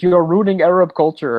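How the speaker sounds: mock Middle Eastern accent; lightly put-on Middle Eastern accent; fake Middle Eastern accent. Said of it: "puts on this fake, like, Middle Eastern accent".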